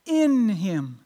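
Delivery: "In" drawn out and set apart; stress on IN. Shown as a demonstration. Preacher making sure listeners caught it, stress on "In". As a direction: lean on the word "In" so it is caught. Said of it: "did you catch that?".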